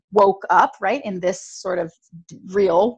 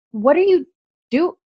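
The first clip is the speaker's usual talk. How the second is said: confused roommate; 6 semitones higher than usual. Retold or imitated. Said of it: "She was, like, so confused".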